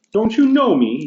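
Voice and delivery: shouted. Acted. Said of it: "he shouted to the ghost".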